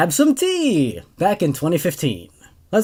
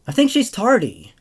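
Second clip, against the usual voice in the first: put-on piping child; 2 semitones higher than usual. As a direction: pipe up from the crowd. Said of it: "piped up one child".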